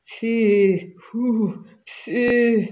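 high, forceful puffs; choked spluttering outbursts; spitting and retching. A narrator's reading. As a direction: spit out short wordless bursts. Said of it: "Köpködött és okádott vért".

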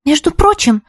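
high, hurt protest; Ия protests, hurt, to the girl who mocked her; offended. A narrator's reading. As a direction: sound insulted by the remark. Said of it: "оскорблённо сказала Ия".

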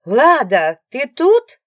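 high, loud call through the flat. A narrator's reading. Mother searching the flat, calling loudly for her daughter. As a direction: call the girl from room to room. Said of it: "зовёт она".

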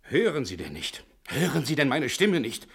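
high, loud, pleading cry into a dying man's ear; desperate shout. Acted. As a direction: yell at him so he still hears you. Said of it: "und schreit ihm ins Ohr".

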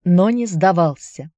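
usual speaking voice

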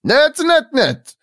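very high, agitated protest; exasperated cry. A narrator's reading. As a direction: cry out in frantic objection. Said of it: "закричал лохматый".

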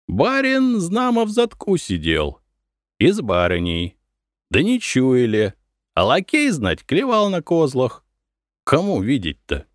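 put-on high-pitched old villager's voice; old peasant gossip. A narrator's reading. Old man explaining why nobody saw the robbery, high peasant voice. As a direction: reason it out in a high old man's singsong.

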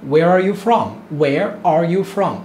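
overly slow Where are you from; every word given full weight. Shown as a demonstration. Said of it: "لما بنخطفها في الكلام ما بنقولش".

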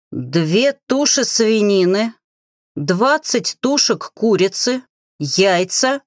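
slow, item-by-item reading aloud; reading out a list. A narrator's reading. Korс reads out the women's shopping list, slowly. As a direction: read each item slowly, with separating pauses. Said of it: "принялся зачитывать вслух наш список".

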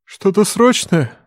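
drowsy slow reply; half-asleep, drawn out; sleepy. Acted. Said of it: "Сонно отозвался Реф".

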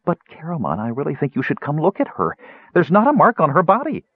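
high, pleading kender voice; urgent high plea. Acted.

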